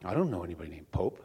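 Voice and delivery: low, understated God voice; mock booming voice. God answering Saint Peter about the Pope, mock booming voice. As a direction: drop low for a comic God, without real volume. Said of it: "in this big booming voice".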